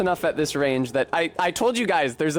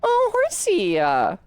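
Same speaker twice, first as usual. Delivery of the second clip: lightly played ditzy bimbo; a hint of a gum-smacking floozy. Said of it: "bimbo voice terminated".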